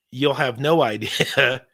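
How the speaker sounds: normal talking voice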